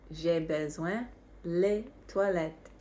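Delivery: slow it down so learners catch every word. Shown as a demonstration. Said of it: "how do you think you would say".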